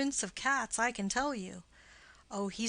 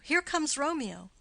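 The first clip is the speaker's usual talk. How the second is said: higher and louder, announcing his arrival; excited call; 5 semitones higher, 3 dB louder than usual. Acted. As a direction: call out as Romeo comes into view. Benvolio spots Romeo arriving.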